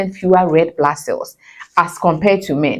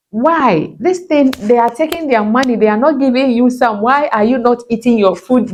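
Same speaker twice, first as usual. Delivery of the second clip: higher, pushy mock scolding at the husband; 5 semitones higher than usual. Wife scolding her husband over not eating, higher and insistent. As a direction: nag him about skipping dinner, pitched up. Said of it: "And I'll go like".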